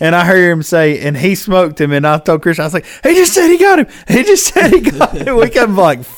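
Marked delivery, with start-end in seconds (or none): 3.0-5.4 put-on shrill, very high-pitched, frantic scream. Retelling shouting the news through the phone: retelling a scream. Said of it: "I could hear you screaming through the phone".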